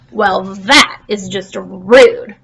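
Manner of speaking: slow, huffy offense; offended. Acted. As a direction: drag it out, insulted. Plankton offended by silence.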